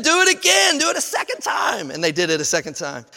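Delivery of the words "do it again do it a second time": commanding shout. Acted. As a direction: bark out the command to the crowd. Elijah commands the water poured.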